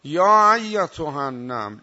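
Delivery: a loud call with the first word stretched; retold shout. Ant chief shouting a warning to the ants. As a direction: call out to the whole colony. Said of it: "فریاد زد".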